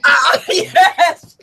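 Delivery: high, loud hammed-up cheering; excited wrestling cheer.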